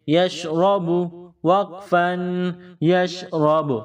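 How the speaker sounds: یشرب ending with ب touched and released; qalqalah stop. Shown as a demonstration. Teacher repeating the stop for pupils. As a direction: let ب bounce at the stop. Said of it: "touch کر کے جدا کریں گے".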